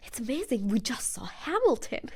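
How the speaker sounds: breathy, whispered gush; awed whisper. Retold or imitated. Guest telling the bartender about Hamilton, awed whisper. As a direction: whisper it, slowing as you go. Retelling gushing reply to the bartender.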